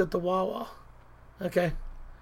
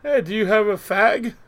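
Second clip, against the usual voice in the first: lightly put-on British accent; louder, playful attempt at a British accent; mock British accent; 2 semitones higher, 5 dB louder than usual. Joking to co-host about a fag, mock British accent. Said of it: "I'll be like in a British accent".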